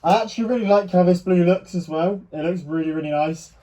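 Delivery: muffled. Real, not acted. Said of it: "my voice muffled is 'cause I've obviously got this mask on".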